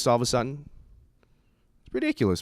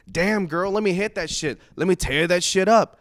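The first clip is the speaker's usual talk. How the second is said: mock street catcall, pitched up; retold catcall; 6 semitones higher than usual. Man hollering at a girl on the street, mock catcall. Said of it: "just yelled some obscene stuff like".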